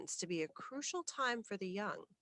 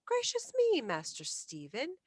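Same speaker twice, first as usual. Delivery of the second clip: sharp exclamation, much higher and louder; an old housekeeper flaring up in exasperation; irritable housekeeper; 8 semitones higher, 6 dB louder than usual. Acted. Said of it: "she broke forth rather irritably".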